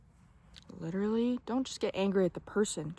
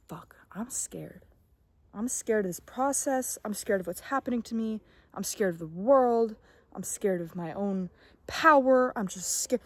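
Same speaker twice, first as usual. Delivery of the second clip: admitting fear. Retold or imitated. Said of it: "Just be like".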